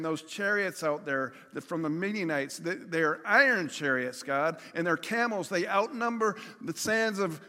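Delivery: starts level, builds to a loud, high desperate cry; growing panic. Retold or imitated. Preacher voicing outnumbered people crying out to God in panic. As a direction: let the fear mount until it breaks out. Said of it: "the Canaanites saying".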